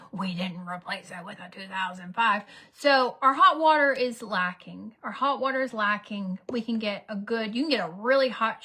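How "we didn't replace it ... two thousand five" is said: hissed retort. Retold or imitated. Arguing with husband, whispered.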